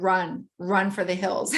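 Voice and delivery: slow, low urgent warning; an ominous inner voice. Retold or imitated. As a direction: drag out the warning slowly. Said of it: "this voice in my head that said".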